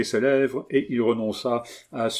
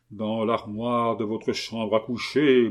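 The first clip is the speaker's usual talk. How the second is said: cavernous voice. Acted. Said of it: "d'une voix caverneuse".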